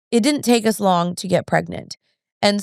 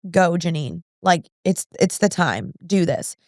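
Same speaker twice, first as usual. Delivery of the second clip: lightly voiced prompting from God, low and subdued; gentle divine nudge; 3 semitones lower than usual. Voicing God's gentle prompting.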